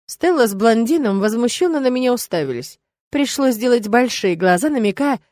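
ordinary delivery

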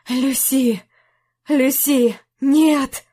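calling her, then breaking into despair; despairing cry. Acted. Jack realises Lucy is dead. (отчаянный крик)

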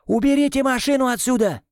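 high commanding yell. A narrator's reading. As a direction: roar the order. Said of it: "заорал я". (громкий приказной ор)

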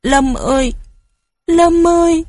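high, loud sobbing call; mother weeps over her waking son, high sobbing call. A narrator's reading. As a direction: cry out his name through tears. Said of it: "Mẹ nức nở".

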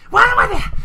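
hammed-up diva shriek; dramatic Rarity. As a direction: swoon it like a diva.

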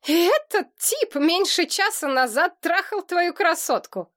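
hammed-up disbelief; comical mock amazement. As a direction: play up the amazement for laughs. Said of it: "потешно изобразил изумление".

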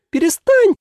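sharp high outraged cry; indignant shout. Acted. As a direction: snap it out, offended. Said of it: "возмутился демон".

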